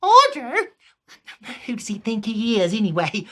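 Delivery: hammed-up Southern outrage; Southern peasant. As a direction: scoff at the king's order. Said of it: "I changed it to a Southern".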